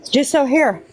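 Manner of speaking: winded after hurrying outside; breathless, catching air between words; out of breath. Real, not acted. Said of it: "I'm out of breath".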